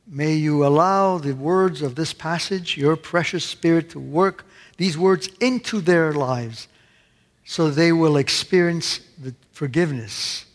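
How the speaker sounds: earnest, measured prayer voice; closing prayer. Acted. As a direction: pray over the congregation, steady and sincere. Pastor leads closing prayer.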